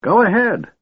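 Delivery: put-on high, testy old mage; irritable snap. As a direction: snap it off, annoyed. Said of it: "Fizban snapped at Caramon irritably".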